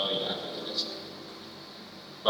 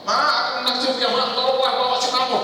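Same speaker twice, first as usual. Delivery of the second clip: put-on higher, pleading child voice; mock child calling home, much higher; whiny child on the phone; 11 semitones higher than usual. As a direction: play the grown kid calling mom with a problem. Child phoning mother with problems.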